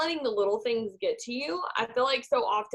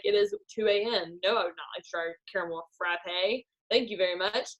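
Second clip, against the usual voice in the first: unimpressed customer; 3 semitones lower than usual. Acted. Customer at McDonald's at two AM, unimpressed. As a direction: turn down the upsell wearily. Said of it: "And you're like".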